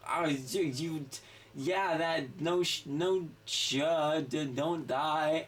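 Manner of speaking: put-on stammering drunk. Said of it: "she said that exactly like that".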